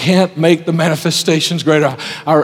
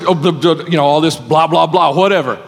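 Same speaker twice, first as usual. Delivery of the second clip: mock bored droning; dismissive blah blah. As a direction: brush it off like a tired complaint. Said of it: "And Elijah said".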